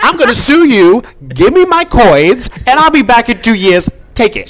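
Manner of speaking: loud, high gloating taunt; gloating, laughing. Retold or imitated. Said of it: "Now that's gangster".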